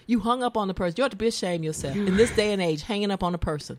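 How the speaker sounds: tut-tut at the co-host; mock scolding. Host scolding co-host for hanging up, mock.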